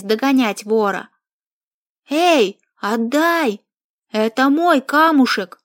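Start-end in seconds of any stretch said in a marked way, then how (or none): 2.1-5.6 put-on loud childish protest; indignant shout. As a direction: yell it, snatching back. Chasing thief for stone.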